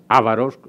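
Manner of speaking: ávaros with the stress clearly on the first a. Shown as a demonstration. Lecturer correcting the Avars' name for the audience, stress on the first a. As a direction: say ávaros as ÁVAROS, leaning on the opening a. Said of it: "con acento en la A".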